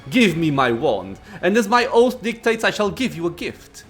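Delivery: proud, imperious lich greeting; arrogant lich. Acted. Voices the lich.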